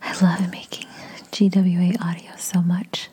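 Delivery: panting, whispery afterglow; breathy words with long recovering pauses; still catching breath. Real, not acted. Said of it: "wait till my breathing calms down".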